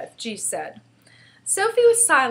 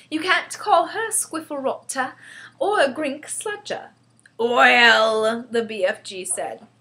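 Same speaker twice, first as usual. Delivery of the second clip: put-on high-pitched girl, growing indignant; affronted child telling off an elder; getting angrier; 5 semitones higher, 5 dB louder than usual. A narrator's reading. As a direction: scold with mounting crossness. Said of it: "getting angrier and angrier".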